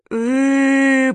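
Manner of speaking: a dazed, high, loud groaning moan. Acted. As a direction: moan out after the blow, stunned. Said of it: "промычала Маня".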